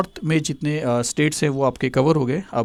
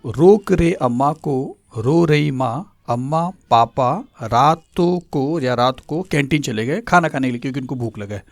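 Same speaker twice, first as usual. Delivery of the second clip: slow recitation. Shown as a demonstration. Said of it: "full mnemonic recited".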